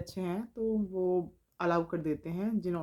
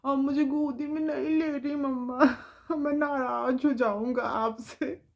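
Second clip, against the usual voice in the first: put-on whiny child; 3 semitones higher than usual. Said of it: "उससे कह रही है".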